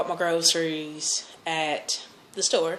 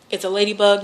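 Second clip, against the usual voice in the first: ladybug said loud, stress on lady; 3 semitones higher, 8 dB louder, faster than usual. Shown as a demonstration. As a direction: punch ladybug. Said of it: "not a ladybird".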